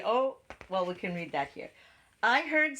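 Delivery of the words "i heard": high little bird voice. A narrator's reading. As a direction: chirp it like a bird. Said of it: "said the bird".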